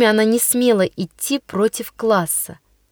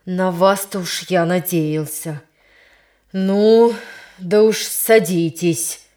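bitter; 3 semitones lower, slower than usual. Acted. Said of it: "с горечью".

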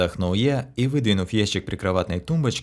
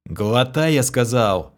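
barked order; 4 semitones higher, 4 dB louder, slower than usual. Acted. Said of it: "рявкнул я".

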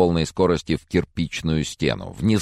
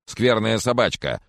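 put-on higher scolding baby talk; old man cooing at the spaniel, higher; 13 semitones higher, 4 dB louder than usual. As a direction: coo at the puppy in mock sternness. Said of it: "сюсюкая".

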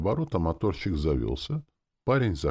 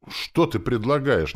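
slow, higher question with rising irritation; starting to seethe; 8 semitones higher, 5 dB louder than usual. A narrator's reading. Sorcerer losing patience with soldier, starting to seethe. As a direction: let impatience begin to boil. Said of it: "начал я закипать".

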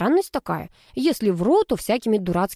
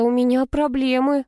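жалобно; 6 semitones higher, 3 dB louder than usual. A narrator's reading. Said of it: "жалобно произнесла я".

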